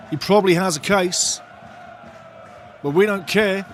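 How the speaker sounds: ordinary talk, nothing marked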